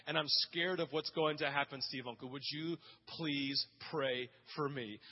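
dropping to a near-hush, mildly scared; softly imitating a frightened boy's plea. Preacher voicing a scared convert asking for prayer, hushed.

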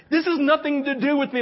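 high, loud, impassioned; overwhelmed insistence. Retold or imitated. Preacher recognizing the moment is not his, impassioned. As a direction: declare it urgently, pitch and volume up.

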